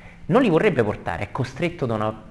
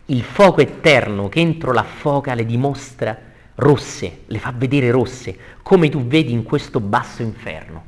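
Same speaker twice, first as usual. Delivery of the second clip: emphatic, projected poetry reading; verse recitation; 5 dB louder than usual. Acted. Teacher reading on about the fire of hell, emphatic declamation. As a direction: declaim it firmly to a class. Reads verse with brief gloss.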